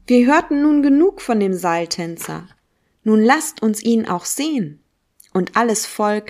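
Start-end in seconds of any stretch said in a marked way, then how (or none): 0.0-4.8 mild call from the crowd. Acted. Man in the crowd heckling Zarathustra, a mildly raised call. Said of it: "schrie einer aus dem Volke".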